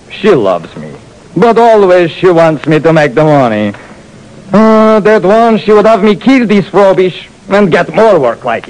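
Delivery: put-on high, slow accented strongman voice; proud giant showing off; burly giant Louis, boastful. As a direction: boast like a big friendly brute.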